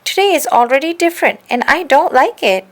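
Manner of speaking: lightly voiced upset bear, high and loud; a hint of a sulky bear; grumpy bear. A narrator's reading. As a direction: complain like a cross little bear. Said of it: "Bialowski upset about empty pot".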